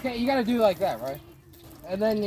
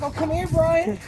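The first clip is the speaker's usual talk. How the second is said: imitated Creepy Joe; 9 semitones higher, 6 dB louder, slower than usual. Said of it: "He's like".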